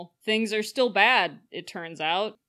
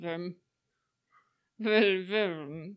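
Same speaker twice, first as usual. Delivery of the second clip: laughing; much slower than usual. Real, not acted. Trying to say a name, giggling.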